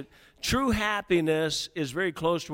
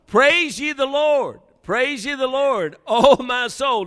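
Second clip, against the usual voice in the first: much higher and louder, laughing through it; excited praise; 8 semitones higher, 8 dB louder, slower than usual. Shown as a demonstration. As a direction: burst out with joyful praise. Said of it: "and he's excited".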